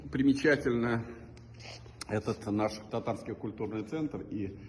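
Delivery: slightly hoarse from a cold; speaking through a cold, coughing; having a cold. Real, not acted. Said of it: "немного простужен".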